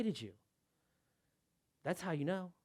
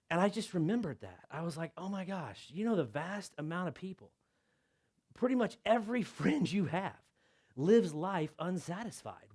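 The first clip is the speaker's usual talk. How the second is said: much softer, intimate; hushed reflection; 6 dB quieter than usual. Real, not acted. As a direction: draw them in softly.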